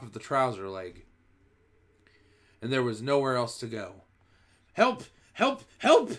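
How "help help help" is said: shrill, very high, loud screams for help; screaming. A narrator's reading. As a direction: scream in total panic. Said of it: "the man was screaming".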